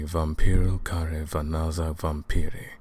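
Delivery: "Vampiro care vanaza vampiri" said with an English speaker's clumsy Romanian sounds. Acted. Hunter giving his Romanian title, mangling "Vampiro care vanaza vampiri". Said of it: "Pardon my terrible pronunciation".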